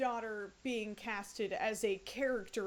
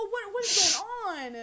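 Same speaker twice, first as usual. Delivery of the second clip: bewildered; 7 semitones higher, 7 dB louder than usual. Real, not acted. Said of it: "reacting in disbelief".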